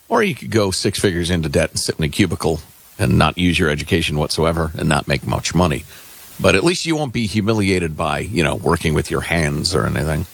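dry sarcastic aside; deadpan mock-serious sarcasm. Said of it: "my voice was dripping with sarcasm".

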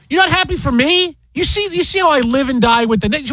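high-pitched, hurt-dad protest; wounded disbelief. Retold or imitated. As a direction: plead your case, playing up the hurt. Dad retells pleading with daughter.

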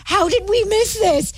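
high-pitched, dismayed disbelief; mock-panicked and high; retold panic. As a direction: wail it lightly in a high voice, as if just caught out. Retelling her panicked text to room mom.

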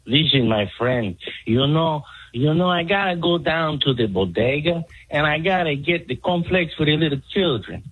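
Mexican accent impression. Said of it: "do you not have a Mexican?".

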